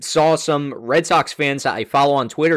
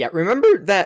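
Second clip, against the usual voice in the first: voice breaking on the word, pitched up; 5 semitones higher than usual. Discussing a baseball player with a co-host, starting to speak with voice cracking. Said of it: "Nice voice crack".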